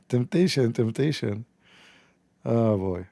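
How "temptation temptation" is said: mock tempted. Real, not acted. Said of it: "See how easy to tempt a man?".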